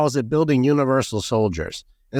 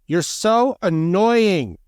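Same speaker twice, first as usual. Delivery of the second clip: mock exasperated; 7 semitones higher, much slower than usual. Mocking the disapproving mother.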